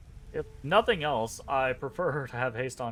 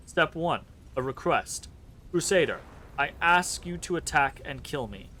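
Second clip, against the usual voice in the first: lightly robotic, even monotone reading; half-hearted robot, words flat and measured; cheap robot voice. Acted. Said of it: "cheapskate robot voice".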